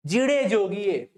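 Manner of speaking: slow, loving call to clear the way; affectionate call. Retold or imitated. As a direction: call out fondly to a passer-by. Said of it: "बड़ी प्यार से कहते हैं वो". (धीमी, प्यार भरी पुकार)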